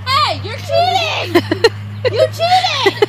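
high, loud protesting cry; loud accusation. Real, not acted. Player accusing a child of cheating, loud protest. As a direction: call out the cheater indignantly.

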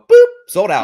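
high, loud mock ticket clerk. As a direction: squeak out a mock clerk's sold out. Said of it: "they go".

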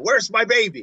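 lightly voiced mother's high cry; mock angry mother. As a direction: play at being a frantic searching mother. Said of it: "play as an angry mother".

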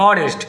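অনেস্ট said with a silent h, starting on the vowel অ; অনেস্ট with no h sound at the start; silent h in honest. Shown as a demonstration. Teacher shows students how honest sounds, silent h. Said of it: "অ উচ্চারণ হচ্ছে".

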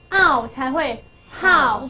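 ow, then how with h blended on; how formed slowly from h plus ow; sounding out. Shown as a demonstration. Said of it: "你一开始知道H H和和".

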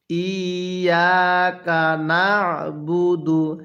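slow ইয়াকা না'বুদু with the throat squeezed on না'; throat-pressed ain. Shown as a demonstration. Teacher shows the rule for ain, throat-pressed না'বুদু. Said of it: "গলার মধ্যে চাপ দিয়ে পড়বেন".

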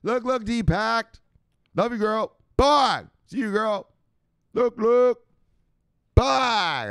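very high, loud squeaky put-on voice; over-the-top high-pitched catchphrase yelling; shout-out on request. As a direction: squeal it out for a fan who asked. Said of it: "Let me give her one more 'cause she wanted it".

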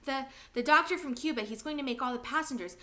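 breathless, rushing the words out; gasping the news after a run; out of breath. Acted. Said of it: "still panting from his run".

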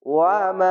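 মা held one beat long; মা with a short drawn a; one alif stretch. Shown as a demonstration. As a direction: stretch the vowel of মা a single count. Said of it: "এক আলিফ টেনে পড়বেন".

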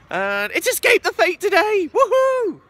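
high, loud whoop of joy; excited cheer. Real, not acted. A band's gig today, high loud whoop. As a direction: cheer like a fan on gig day.

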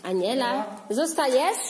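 calling out. Real, not acted. Mother calling toddler.

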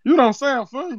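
put-on Zeke accent; Zeke-style street accent. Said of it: "that accent funny as shit".

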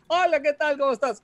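put-on high-pitched caricature of Japanese and Chinese accents; mock Asian accent. Podcaster demonstrating his old stereotyped character, high mock Asian accent. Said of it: "y el personaje hablaba así".

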